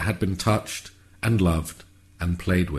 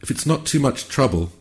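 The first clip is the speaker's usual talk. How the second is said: careful clear cat voice; 7 semitones higher than usual. A narrator's reading. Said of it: "trying hard now to win back its voice and speak as clearly as a human".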